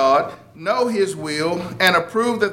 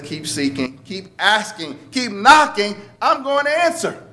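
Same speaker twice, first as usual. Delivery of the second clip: voice of God, building; 4 semitones higher than usual. Retold or imitated. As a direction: let God's promise swell up to I'm going to answer. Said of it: "God says".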